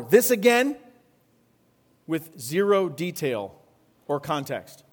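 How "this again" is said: mock exasperation. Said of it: "looks like this".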